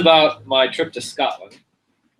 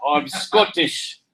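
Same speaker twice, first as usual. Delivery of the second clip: put-on Scottish accent; 5 semitones higher, slower than usual. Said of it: "do a Scottish accent".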